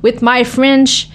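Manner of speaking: put-on slow, deliberate English with a French-Canadian accent; big French accent. Boxer retelling her interview opener, big French-Canadian accent in English. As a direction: spell it out slowly in heavy French-accented English. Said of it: "I have a big French accent".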